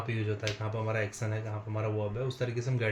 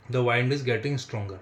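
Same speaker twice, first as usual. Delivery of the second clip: slow, drawn out and a bit louder; slow dictation; 5 dB louder, much slower than usual. Shown as a demonstration. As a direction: spell it out slowly for the class. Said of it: "teacher dictating slowly". (धीरे-धीरे ज़ोर से बोलना)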